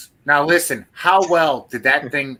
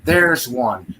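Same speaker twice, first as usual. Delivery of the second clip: retold yell; slower than usual. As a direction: call her name as a half-raised retold yell. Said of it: "and I yell".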